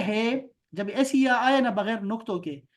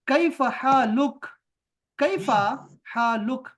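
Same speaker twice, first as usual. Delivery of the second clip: higher, slow कैफ़ हालुक with a rising question; Khalid asking; 5 semitones higher, 4 dB louder than usual. Acted. Teacher voices Khalid asking how Khalil is. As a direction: ask कैफ़ हालुक like a friendly greeting. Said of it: "Khalid ने फिर कहा".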